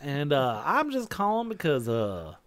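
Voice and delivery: slow, drawled Southern phone caller; Southern twang. Acted. Caller introducing himself in a light Southern twang. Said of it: "You just put on a Southern twang".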